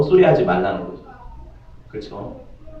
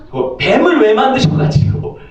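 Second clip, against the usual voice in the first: higher pitched whiny complaint, stress on 뱀을; blaming complaint; 7 semitones higher than usual. Acted. Adam complaining to God about the snake, higher whine. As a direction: whine it like a petulant blamer.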